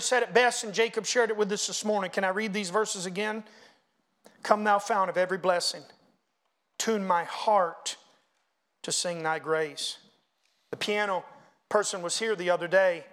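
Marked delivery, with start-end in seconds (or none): 4.4-10.0 reading hymn lyrics. Acted. Reads hymn verse slowly.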